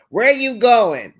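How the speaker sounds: loud, slow demanding bark; correctional officer. Retold or imitated. Woman interrogating her man like a prison guard. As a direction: question him like a guard would. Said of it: "acting like a correctional officer".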